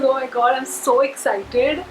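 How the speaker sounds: giddy and nervous; thrilled but jittery; excited dread. Real, not acted. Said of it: "and nervous as well".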